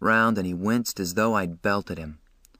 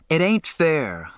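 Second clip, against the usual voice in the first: higher, slow, pleading outcry; passionate cry; 7 semitones higher, 3 dB louder, slower than usual. A narrator's reading. Ponyboy protesting their rough breaks, passionate cry. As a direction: cry it out as an unfairness, held back from a full shout. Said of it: "I cried passionately".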